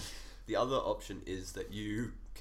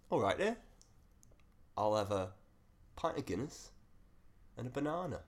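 put-on English accent; 2 semitones higher than usual. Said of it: "those English accents".

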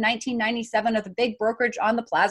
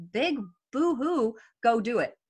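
sarcastic; slower than usual. Real, not acted. Dismissing difficulty sarcastically.

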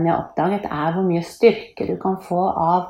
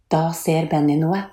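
ordinary delivery

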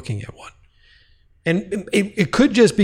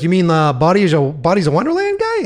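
rising, higher, louder disbelief; incredulous question; 4 semitones higher, 4 dB louder than usual. Retold or imitated. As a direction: ask it like you can't believe it. Realizing the man is a singer.

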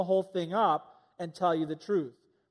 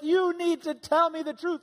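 stern parent; 9 semitones higher, 4 dB louder than usual. Retold or imitated. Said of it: "you're like".

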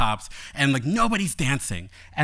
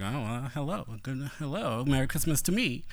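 flirty aside; 6 dB quieter than usual. Retold or imitated. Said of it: "I was like".

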